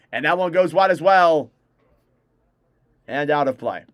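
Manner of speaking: brisk broadcaster's call of the action; live play-by-play. Acted. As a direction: call the hockey game live for stream viewers.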